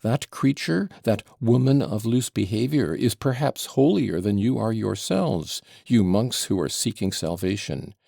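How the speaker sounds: excited tirade. Acted. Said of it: "cried Fyodor Pavlovitch".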